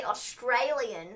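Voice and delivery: slow Aussie-tinged "Australian"; attempted Australian accent. Shown as a demonstration. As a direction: stretch "Australian" with an Australian twang. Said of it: "I can say Australian".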